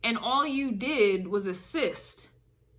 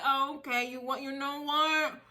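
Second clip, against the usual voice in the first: softly acted resignation; quiet resignation; 8 dB quieter than usual. Acts your quiet resolve after setback.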